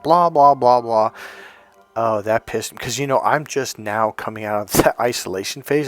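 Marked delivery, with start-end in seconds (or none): 0.0-1.1 loud mocking blah-blah; dismissive mimicry. Retelling what they said to me, dismissive mimicry. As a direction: imitate an accuser droning on, louder. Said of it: "this is what they said".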